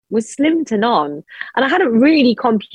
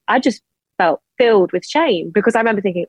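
ordinary talk, nothing marked

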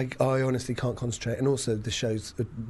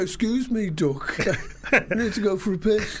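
laughing mock impression of a singer; 7 semitones higher than usual. Imagined line in a singer's voice, laughing.

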